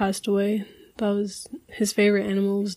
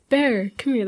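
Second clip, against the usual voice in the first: dad calling out; 3 semitones higher than usual. Retold or imitated. Dad calls child over to hug him, calling out. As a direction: call your kid over for comfort.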